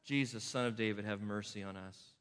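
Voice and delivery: low, soft plea, mercy; quietly voicing the blind men's shout; retold shout. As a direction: say the cry under the breath. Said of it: "They shout".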